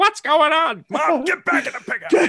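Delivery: high, loud panicked mom voice; shrill-free but high frantic mother yelling; mom panicking. Retold or imitated. Mom yelling from roadside at the crash scene, frantic. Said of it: "My mom's like".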